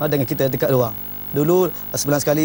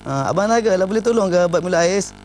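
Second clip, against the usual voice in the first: gentle request; 2 semitones higher than usual. Retold or imitated. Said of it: "dia berubahlah dulu lembut".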